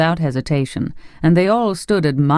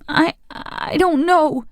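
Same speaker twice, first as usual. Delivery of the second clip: pained whisper; 12 semitones higher, slower than usual. A narrator's reading. Boy whispers in pain.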